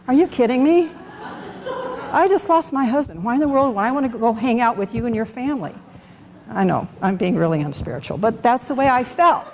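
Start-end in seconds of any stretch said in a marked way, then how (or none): 0.1-5.7 high, half-laughing are you kidding me; incredulous disbelief. Retold or imitated. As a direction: let the disbelief spill out with a laugh. Reacting to camping trip invitation.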